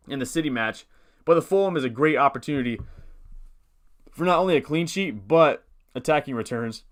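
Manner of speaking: talking between hiccups; hiccuping mid-sentence. Real, not acted. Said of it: "I don't know why I'm hiccuping".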